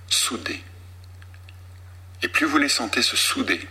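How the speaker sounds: slow, soft hypnotic induction with long pauses; slow hypnotist voice. Acted. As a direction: sink them into sleep, phrase by phrase. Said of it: "cette voix qu'on a entendue, qui est très lente, avec un phrasé particulier".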